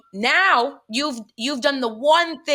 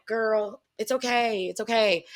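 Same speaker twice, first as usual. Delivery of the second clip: retold calming down, slightly softened; understated reassurance; soothing de-escalation. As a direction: gently talk a friend down, mildly. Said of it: "I'm de-escalating the situation".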